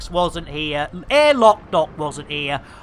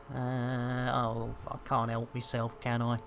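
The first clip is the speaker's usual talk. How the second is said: whispering; 8 semitones lower, 19 dB quieter than usual. Acted. Sudden hushed far voice.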